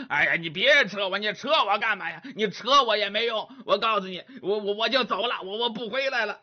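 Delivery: fast, stammering, irritated protest; flustered young man. Acted. Grabbed young man protests to Monkey, fast flustered stammer. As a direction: shake him off in a rush of words.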